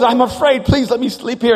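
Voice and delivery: retold anxious plea; scared pleading. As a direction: beg to stay, mock fearful. Voices scared child begging brother.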